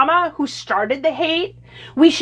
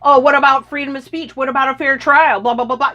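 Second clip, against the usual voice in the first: mocking sarcasm. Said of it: "you would all be going".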